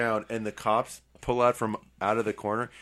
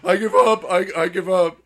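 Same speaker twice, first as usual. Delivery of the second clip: higher, louder mock robber giving up; panicked surrender; 8 semitones higher, 8 dB louder than usual. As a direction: call it out like a cornered robber. Robber acted surrendering to cops.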